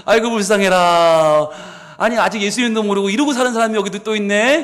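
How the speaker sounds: exaggerated sorrowful pity; mock pity. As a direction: pity him with a knowing smile. Slow drawn pity line.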